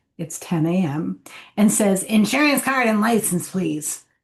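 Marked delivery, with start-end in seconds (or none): 2.1-4.0 put-on, extremely annoyed, irritated voice. Speaker retells what the woman behind the glass window said, imitating an extremely annoyed voice. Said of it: "in the most annoyed voice possible".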